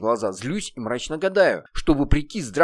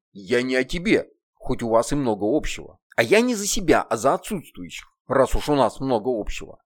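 cold. Acted. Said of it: "холодно заметил".

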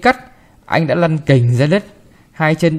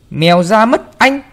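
alarmed cry; 8 semitones higher, 5 dB louder than usual. A narrator's reading. Maid stops boy opening cage.

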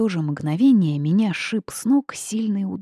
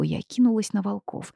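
ordinary delivery

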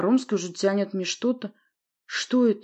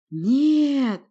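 loud, high roaring "no"; 8 semitones higher, 6 dB louder than usual. A narrator's reading. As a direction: roar it in alarm. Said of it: "тут же взревел Рыконсорг".

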